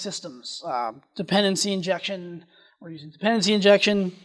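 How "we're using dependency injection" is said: quick, rushed delivery; hurrying through the technical terms; talking too fast. Real, not acted. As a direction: rattle it off without pausing. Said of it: "I'm going a little fast".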